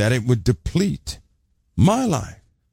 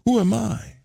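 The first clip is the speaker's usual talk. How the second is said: incredulous self-question; 12 semitones higher than usual. Retold or imitated. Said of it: "you say".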